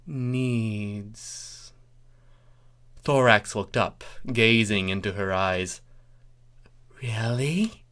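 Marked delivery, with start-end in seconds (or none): 0.1-1.7 dropped, softer sultry voice; husky and sultry. Acted. Starlight seducing Thorax, husky and soft. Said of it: "her voice dropped, husky and sultry". 7.0-7.9 breathy whisper, no voice. Acted. Thorax whispering to Starlight, hopeful whisper. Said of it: "he whispered".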